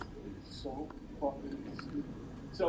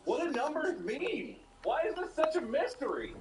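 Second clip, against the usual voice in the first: exasperated; 12 semitones higher than usual. Real, not acted. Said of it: "exasperated rant".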